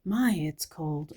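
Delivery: slow, drawn-out mock chill; mock shiver. Her first reaction to the ad, slow mock shiver. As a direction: act out feeling cold, slowly. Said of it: "First impression is".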